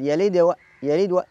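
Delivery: "يلد و" with a brief bounce on د, straight into و; quick minor qalqala. Shown as a demonstration. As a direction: flick the د of "يلد" and move on to "و". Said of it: "هذه سريعة تكون صغرى".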